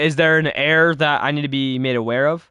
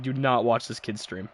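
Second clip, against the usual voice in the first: mock viewer quote; 3 semitones lower, 7 dB quieter than usual. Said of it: "These guys are like".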